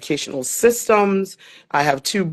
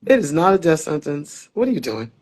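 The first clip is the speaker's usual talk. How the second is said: with attitude. Retold or imitated. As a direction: imitate a colleague's no-nonsense talking-to. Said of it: "looked at me with an attitude".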